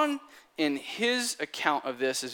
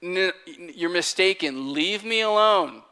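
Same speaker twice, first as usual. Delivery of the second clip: stammering denial; 4 semitones higher, 4 dB louder than usual. Retold or imitated. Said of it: "Peter says".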